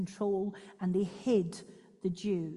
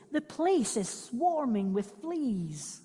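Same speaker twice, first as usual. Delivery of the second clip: dismayed; 4 semitones higher, 4 dB louder, slower than usual. Acted. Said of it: "I cried".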